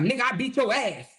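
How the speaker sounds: hammed-up braggart taunting his rival; lightly voiced mock trash talk; mocking Kevin. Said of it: "He's like".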